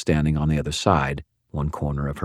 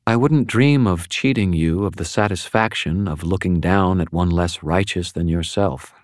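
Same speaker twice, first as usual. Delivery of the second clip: dry monotone; 2 semitones higher than usual. Acted. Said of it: "very dry amusement giving her monotone".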